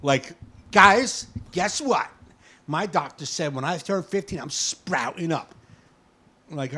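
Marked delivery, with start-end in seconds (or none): 0.7-5.5 loud, high, excited announcement; a twelve-year-old telling friends he'll grow, excited; excited kid. Retold or imitated. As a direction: burst in with big news. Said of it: "He came home all happy".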